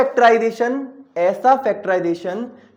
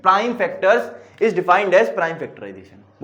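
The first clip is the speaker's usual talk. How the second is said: very slow, word by word for note-taking; slow dictation; much slower than usual. Shown as a demonstration. Teacher dictating the definition to students, very slowly. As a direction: dictate it so they can write along. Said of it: "इसकी definition कैसे लिखोगे?".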